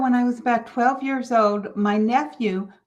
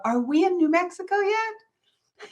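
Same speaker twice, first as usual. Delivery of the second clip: imitating a whiny toddler; 6 semitones higher than usual. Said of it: "Marty would go".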